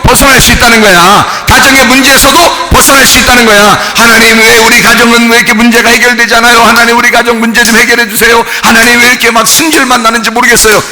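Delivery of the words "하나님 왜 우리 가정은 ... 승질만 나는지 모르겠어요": monotone whining plea; acted complaining prayer. Believer asking God about family troubles, complaining drone.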